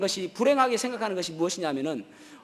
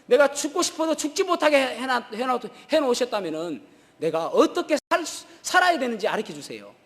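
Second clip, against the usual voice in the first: raised, higher pleading cry; loud plea to God; 3 semitones higher than usual. Retold or imitated. Preacher voicing Joni's prayer to God, loud pleading. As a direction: call out to God, begging for an answer. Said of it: "큰 소리로 이야기하기를".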